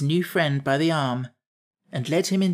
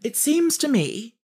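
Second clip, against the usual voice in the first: high, slow, softened remark; mild; 10 semitones higher than usual. A narrator's reading. Scarecrow easing off after the rebuke, mildly. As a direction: ease off into a gentler opinion. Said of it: "continued the Scarecrow more mildly".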